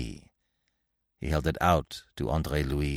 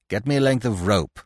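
commanding; 3 semitones higher than usual. Acted. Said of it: "he commanded".

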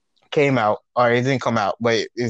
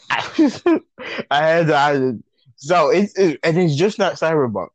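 words jolted by chest thumps; talking while beating on chest; thumping own chest; 4 semitones higher than usual. Real, not acted. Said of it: "sorry if y'all hear beating on my chest".

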